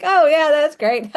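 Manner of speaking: high, loud, slow mock-cheerful sarcasm; fake-delighted reply that means the opposite; sarcastic oh yeah. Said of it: "I was like".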